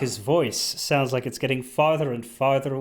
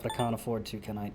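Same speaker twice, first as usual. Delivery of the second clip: muttering; 5 semitones lower, 10 dB quieter than usual. Real, not acted. Trailing off to himself.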